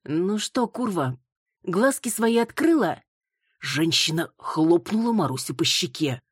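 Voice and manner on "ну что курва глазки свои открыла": sneering scold. Acted. Angry mother scolding stranger.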